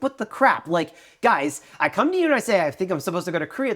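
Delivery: high, loud disbelieving outburst; mock outrage, pitched high; exasperated. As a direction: throw up your hands at the friends. Exasperated at unhelpful friends.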